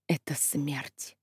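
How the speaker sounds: very soft, slow, low despairing mutter. Acted. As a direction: murmur it as if all is lost. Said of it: "она бормотала".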